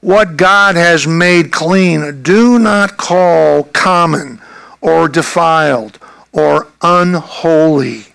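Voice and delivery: solemn heavenly voice. Acted. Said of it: "the voice came to him again".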